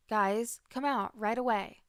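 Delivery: a mock stern mom summoning kids; calling out sternly. Mother ordering hidden kids out.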